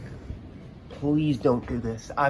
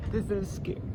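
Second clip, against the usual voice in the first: frightened high voice; 7 semitones higher, 4 dB quieter than usual. Real, not acted. Lightning strike frightens him.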